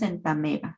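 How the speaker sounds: "entameba" with a single E vowel, en-ta-ME-ba; "entameba", the OE said as plain E; diphthong reduced to E. Shown as a demonstration. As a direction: say "entameba" with no O before the E. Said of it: "es por eso que pronunciamos".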